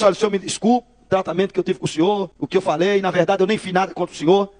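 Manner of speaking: smooth things over in a low, mild voice; conciliatory apology. Retold or imitated. Rival apologising to the pastor to negotiate, conciliatory.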